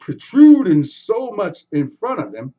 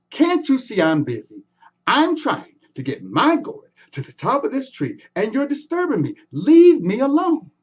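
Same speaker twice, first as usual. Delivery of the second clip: frustrated; 5 semitones higher, 4 dB louder than usual. Acted. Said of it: "Anansi was frustrated".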